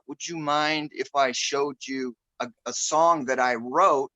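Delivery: slowed-down imitation of halting speech. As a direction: gently imitate a slow, careful speaker. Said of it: "he says in a really slow voice".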